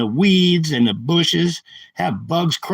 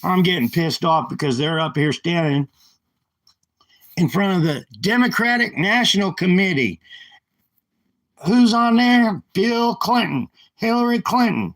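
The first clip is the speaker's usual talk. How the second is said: rising anger, pitch climbing much higher; getting worked up; 4 semitones higher than usual. Real, not acted. Ranting to his live viewers about the committee, climbing in real anger. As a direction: let the outrage build as you list names. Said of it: "I'm getting worked up 'cause I'm getting fucking pissed off".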